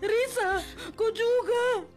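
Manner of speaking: steady, wounded confrontation; hurt speech. Acted. Bullied Nola confronting coworkers, steady wounded voice. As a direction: calmly call them out.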